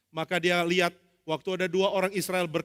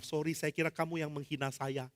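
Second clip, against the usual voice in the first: sheepish apology; 2 semitones lower, 7 dB quieter than usual. Acted.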